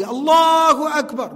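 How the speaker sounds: slow, high, full-voiced Allahu Akbar; loud adhan call. Shown as a demonstration. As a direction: call it out like a muadhin to the hills. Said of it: "Call the adhan loudly".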